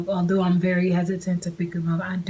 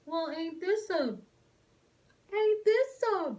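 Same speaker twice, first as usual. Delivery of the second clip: much higher, slowly drawn-out ain't this a; sarcastic sing-song; 11 semitones higher, 6 dB quieter, much slower than usual. Retold or imitated. Finding the kid's mother on Instagram, much higher, slow and sarcastic. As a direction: drag it out with knowing sarcasm.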